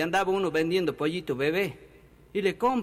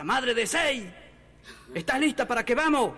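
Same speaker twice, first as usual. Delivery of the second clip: higher-pitched call, only mildly raised; mock yell; 4 semitones higher than usual. Husband calling his wife at a crowded party, mock yell. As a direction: call out for everyone to hear. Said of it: "le grita".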